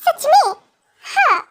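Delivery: wife alone, pleased and laughing to herself; happy young wife. Acted. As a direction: gush to yourself over the husband. (हँसती, खुश पत्नी अकेले में)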